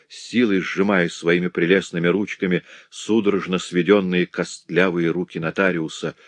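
ordinary delivery

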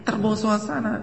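high, laughing denial; wife laughing off husband's jealousy; laughing excuse. Retold or imitated. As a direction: brush it off with a giggle.

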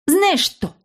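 put-on high indignant girl; angry girl. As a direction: flare up, pitched high. Sister flaring at brother.

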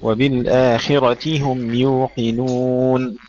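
وبالآخرة with the taa broken to ti; teacher models وبالآخرة slowly, breaking the taa; kasra on the taa. Shown as a demonstration. Teacher corrects the student, slow model. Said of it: "اكسر التاء".

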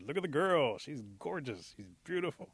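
high, swooping excitement; smitten admiration. Acted. Rabbit spotting a girl he fancies, excited gushing. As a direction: gush with a loud, high first burst.

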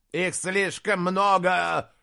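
loud, high, slow cry of alarm; shout. Acted. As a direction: yell it over the battle. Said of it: "закричал Аспитис". (громкий крик)

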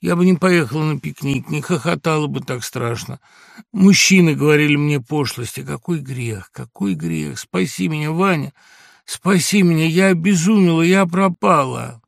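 high, loud sobbing; sobbing plea. A narrator's reading. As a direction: wail it like a child. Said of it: "она всхлипывала, как ребёнок".

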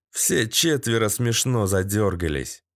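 plain reading voice

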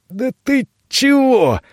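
high strained words forced through a squeezed throat; struggling to get words out; choked, breathless protest. A narrator's reading. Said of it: "с трудом выговорил Зован".

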